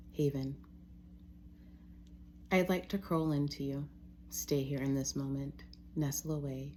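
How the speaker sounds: measured, even poem reading with pauses between lines; poetry reading. Real, not acted. Reading own poem to listeners, measured and reverent. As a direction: read each line as verse, letting it settle. Reads own untitled poems.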